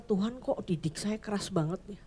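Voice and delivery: whiny complaint to God. Retold or imitated. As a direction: moan to God like a worn-out believer. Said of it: "Orang-orang yang ngerasa". (mengeluh merengek kepada Tuhan)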